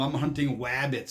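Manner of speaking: wabbits with a w sound for the r; hunting wabbits, Elmer Fudd style; says w for r. Retold or imitated. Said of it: "pronounce his R's like W's".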